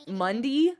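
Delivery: Monday ending in dee, MUN-dee; Southern Monday. Retold or imitated. Reporting how Southern people say it, MUN-dee Monday. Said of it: "Every Southern person says it".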